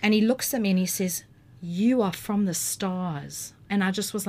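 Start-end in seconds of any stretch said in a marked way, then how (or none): 1.6-3.5 slow, portentous retold prophecy; solemn pronouncement. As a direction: deliver it slowly, like a cosmic message. Stranger delivers his message, retold.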